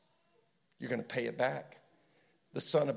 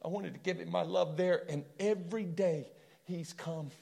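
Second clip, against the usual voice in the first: imagined lament; 4 dB quieter than usual. Retold or imitated. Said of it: "You can almost hear him going".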